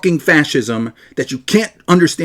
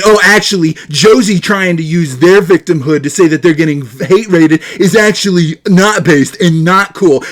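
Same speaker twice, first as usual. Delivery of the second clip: mocking nasal scold; 2 semitones higher, 5 dB louder than usual. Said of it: "you have the fucking gall to say".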